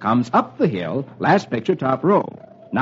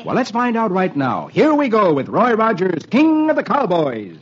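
higher, ringing cowboy show intro; rousing announcer; 3 semitones higher than usual. Acted. Host leading children into a Roy Rogers adventure, rousing announcer call. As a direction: launch the adventure with a cowboy whoop.

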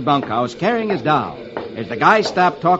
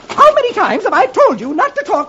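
high, shrill mother's voice; scolding mother; 3 dB louder than usual. Acted. Mother scolds her daughter about strangers. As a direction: scold the child sharply.

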